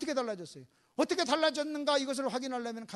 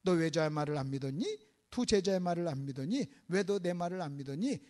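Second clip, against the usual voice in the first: low-pitched reproachful questions; subdued staged reproach; acted mild rebuke; 6 semitones lower than usual. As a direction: ask it low, one question after another. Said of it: "그렇게 책망하질 않아요".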